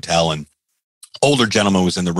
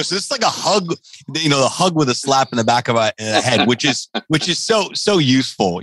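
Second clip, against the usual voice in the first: sarcastic; 7 semitones higher than usual. Retold or imitated. Joking about the feedback.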